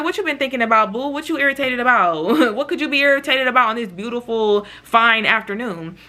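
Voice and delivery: playful, light questioning with a chuckle; teasing. Retold or imitated. Joking with the irritated friend, playfully sweet. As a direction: tease a grumpy friend, stretching the last words. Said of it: "making little jokes or whatever".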